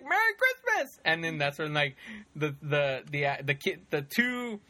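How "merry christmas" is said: very high, jolly mock holler; imitated Santa greeting. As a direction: cry out a hammed-up holiday greeting. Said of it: "He's like".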